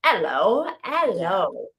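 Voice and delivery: put-on Cockney accent, lightly done; light Cockney hello. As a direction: greet like a Cockney chimney sweep. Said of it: "That's the way I'm reading this".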